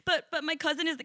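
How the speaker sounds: insecure. Retold or imitated. Imitating a count who lacks confidence, insecure. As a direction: plead it like someone unsure of his rank. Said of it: "It's not like a insecure".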